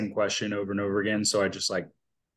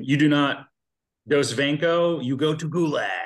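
hammed-up Russian accent, a bit higher; 4 semitones higher than usual. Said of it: "That's not, that's not Russian. That was, like, Chinese".

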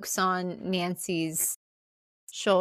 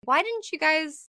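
exasperated; 8 semitones higher than usual. Retold or imitated. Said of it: "I'm like".

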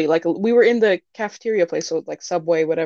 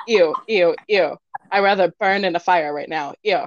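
mock gagging disgust. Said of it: "gagging noises and go".

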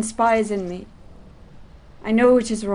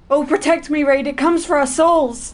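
fearful plea; 4 semitones higher, 4 dB louder than usual. Acted. Sees a spirit, begs friend.

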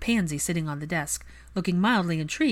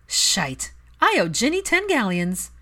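smirking; 5 semitones higher, 6 dB louder than usual. A narrator's reading. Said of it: "Pansy smirked".

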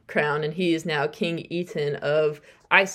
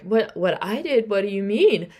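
playing dumb; 3 semitones higher than usual. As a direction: feign confusion at an accusation. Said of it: "he's playing dumb".

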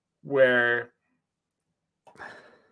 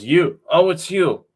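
mock French villain, high and loud; Merovingian rant; 4 semitones higher, 8 dB louder than usual. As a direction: ham up the outraged villain. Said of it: "He says".

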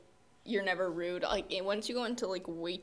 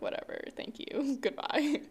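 higher, bright fake-polite server voice; customer service voice; 6 semitones higher than usual. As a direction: chirp it like a sweet waitress. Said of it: "Your customer service voice is".

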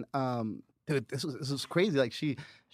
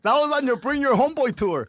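laughing; 10 semitones higher, 6 dB louder than usual. Real, not acted. Laughing while remembering.

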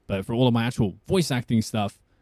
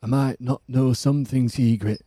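lightly voiced brooding Northern English warrior; Jon Snow. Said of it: "Can you do Jon Snow?".

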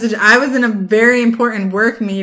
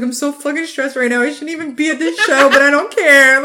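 mock stressed whine, louder at the end; imitating a stressed guy; 4 semitones higher, 4 dB louder than usual. Friend quoting a stressed concert-goer, mock stressed. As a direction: play him frazzled but defiant. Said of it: "he was like".

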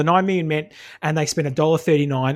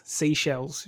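vocal warm-up; 6 dB quieter, much slower than usual. Shown as a demonstration. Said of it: "I'm just gargling".

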